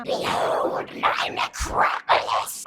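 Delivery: slow, loud ghoulish voice; villain proclamation. Acted. Villain unveils the necropolis, slow loud ghoulish proclamation. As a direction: draw it out as a grand evil reveal.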